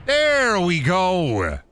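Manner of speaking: high, long drawn-out crow; triumphant cry. Pretend. Gamer who just took the alien blaster, triumphant cry.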